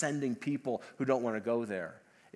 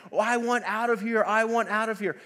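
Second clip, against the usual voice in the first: higher, mildly hammed-up pleading; mock pleading cry; 7 semitones higher, 3 dB louder than usual. People in hell begging for escape, mock pleading cry. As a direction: imitate a desperate plea, not a full scream. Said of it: "people screaming and yelling and saying".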